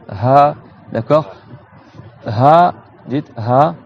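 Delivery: Ha drawn out, only air, no friction; open, airy H. Shown as a demonstration. Teacher drilling students on Ha, airy and frictionless. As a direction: open the whole throat on Ha. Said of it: "C'est que de l'air qui sort".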